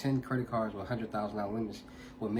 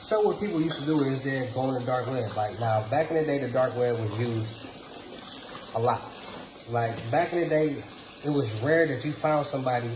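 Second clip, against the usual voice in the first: talking while eating; chewing between words; mouth full. Real, not acted. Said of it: "I'll start this plate".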